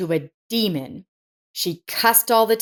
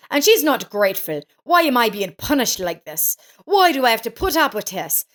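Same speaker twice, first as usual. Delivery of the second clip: raging. Acted. Daughter-in-law berates mother-in-law over the sausage, mild rage. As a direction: scold her like she's a burden. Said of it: "The daughter-in-law continued to rage".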